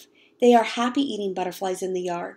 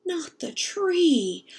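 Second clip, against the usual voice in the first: trailing off; 7 semitones higher, much slower than usual. Acted. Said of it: "Mama's voice trails off".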